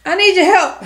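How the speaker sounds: put-on high, pleading little-girl voice; little kid voice. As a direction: beg like a small child.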